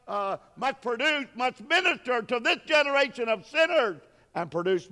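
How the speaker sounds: rising, earnest pulpit delivery; preaching. Acted. Preacher laying the commission on the congregation, earnest preaching. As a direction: charge the church with it.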